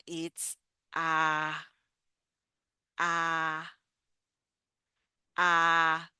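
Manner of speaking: ah held open, mouth wide like the a in cat; Spanish vowel ah. Shown as a demonstration. Teacher modelling the Spanish vowel ah for learners, open and clear. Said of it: "Our first vowel".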